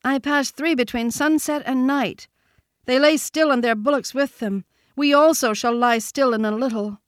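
put-on high young deer voice; young sambar deer, grim news. A narrator's reading. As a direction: tell the bad news pitched high.

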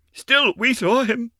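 put-on high, slow, insistent child's voice; insistent girl. A narrator's reading. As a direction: insist they saw him. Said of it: "Jeanne declared".

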